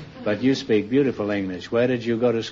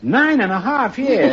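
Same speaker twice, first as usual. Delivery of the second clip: mock surprise; 10 semitones higher, 4 dB louder, slower than usual. Real, not acted. Host echoing surprising answer.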